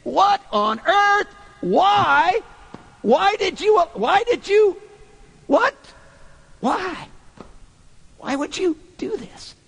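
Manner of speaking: exasperated confrontation. Acted. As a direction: corner him with questions that won't let go. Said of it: "can you see Peter standing before him, looking at him, saying".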